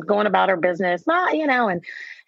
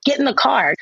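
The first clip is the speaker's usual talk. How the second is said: raised, insistent mock command; firmer get in the car; 5 semitones higher than usual.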